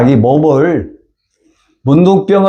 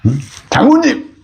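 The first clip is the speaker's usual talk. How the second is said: servant pleading. Retold or imitated. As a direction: urge him gently but firmly. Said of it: "자기 종들이 얘기를 해요".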